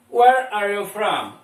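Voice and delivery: slow, clear English with "Where" stressed; slow model reading. Shown as a demonstration. Teacher modelling the question slowly for the class. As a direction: say it slowly so the students can repeat. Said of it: "De onde você é?".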